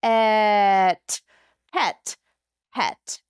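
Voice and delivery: "Et" then "pet" slowly joined; blending sounds. Shown as a demonstration. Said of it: "blend those sounds together".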